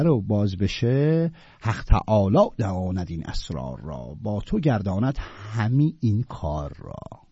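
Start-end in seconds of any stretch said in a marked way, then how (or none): 1.6-7.2 slow, lower verse recital; poem recitation. Acted. Teacher reciting the couplet's second half, slow recital. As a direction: draw out each word of the couplet.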